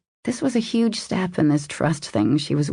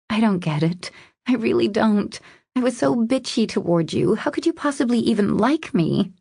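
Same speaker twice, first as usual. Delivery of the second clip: higher-pitched, incredulous female lead; puzzled woman in love; 6 semitones higher than usual. Acted. Woman asking how he could like her, puzzled. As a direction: question his affection in disbelief. Narrator voices the woman in disbelief.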